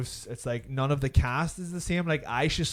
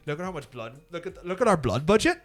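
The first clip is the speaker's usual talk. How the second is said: showing off with swooping pitch; a touch of gleeful bragging; mock boasting; 2 semitones higher than usual. Remake makers brag to viewers about their blood budget, mock boasting.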